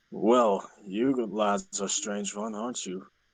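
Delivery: ironically dry, throaty, raspy character voice. A storyteller voices a character speaking to the lads, in a throaty, ironically dry voice. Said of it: "a voice that sounds very uh, throaty and ironically dry".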